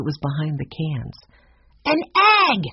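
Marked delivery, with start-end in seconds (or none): 1.9-2.6 put-on high, excited boy's exclamation; acted child's shout of discovery; Benny's shout. A narrator's reading. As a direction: announce a startling find as a storybook child. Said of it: "shouted Benny".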